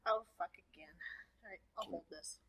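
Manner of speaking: unvoiced muttered aside; whispering. Real, not acted. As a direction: whisper it off mic.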